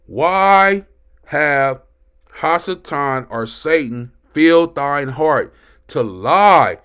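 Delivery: emphatic, building pulpit reading; preaching scripture reading. Acted. Preacher reads Ananias's story to congregation, emphatic and rising. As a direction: read the verse out with mounting force.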